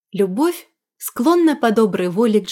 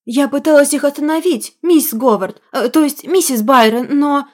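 higher, fretful apology; plaintive wailing maid; 5 semitones higher, 3 dB louder than usual. Acted. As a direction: whine it out, guilty and flustered. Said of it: "она начала жалобно причитать".

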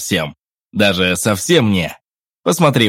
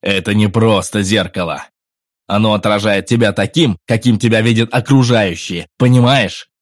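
eager; 7 dB louder than usual. A narrator's reading. Henry's voice.

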